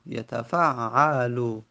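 یتفعلو said very slowly, syllable by syllable; slow demonstration. Shown as a demonstration. Teacher repeating the present-tense form slowly for students. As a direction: stretch out یتفعلو so each vowel is heard.

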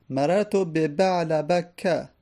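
slow "مررت به بعل بک", final fatha and no nunation; آهسته، بعل بکَ با فتحه; genitive case demo. Shown as a demonstration. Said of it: "در حالت جر".

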